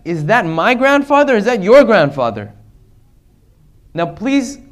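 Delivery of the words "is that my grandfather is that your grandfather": raised voice, imitating a challenge; retold yell. Preacher quoting the Imam challenging Yazid, in a mild yell. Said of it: "he yelled out, he said".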